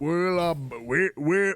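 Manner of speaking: slow European accent slipping into Southern drawl. Trying a European voice, slipping into a Southern accent. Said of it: "that's too southern".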